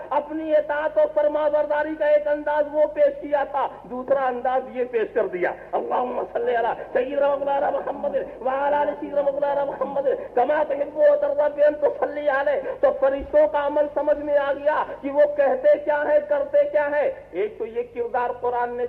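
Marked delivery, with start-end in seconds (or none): 5.7-12.7 recited blessing. Acted. Recites salawat.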